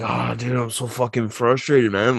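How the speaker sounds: low, hushed mock confiding; retold quiet complaint. Neighbor griping to the dad at a lake, low and hushed. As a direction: grumble it softly, as if confiding in a buddy.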